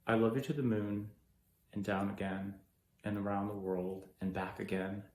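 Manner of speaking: low, soft, measured recollection; subdued grief. Acted. Left behind, recalling words of love, subdued grief. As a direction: remember it quietly, with pauses. Acted grieving memory of being left.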